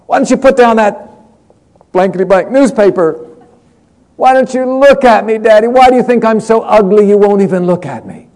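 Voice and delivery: high, loud pleading cry at the father; retold shout. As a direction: yell it up high, begging him to look. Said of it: "she shouted out".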